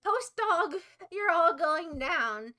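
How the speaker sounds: mock threat. Streamer threatening the band, loud and slow. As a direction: declare war on them.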